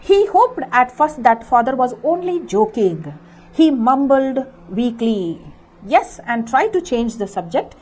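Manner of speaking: deliberate storybook reading for a class; story read-aloud. A narrator's reading. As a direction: read each word out slowly for pupils. Teacher reads story text aloud.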